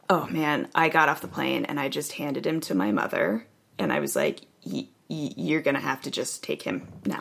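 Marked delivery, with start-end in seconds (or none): 4.7-7.2 quiet, stammering exhaustion; shaky and drained. Retold or imitated. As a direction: hand him off, spent and trembling. Exhausted handing off child.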